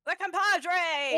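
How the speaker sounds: loud, slow mock outrage; mock dismay. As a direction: drag it out in fake horror.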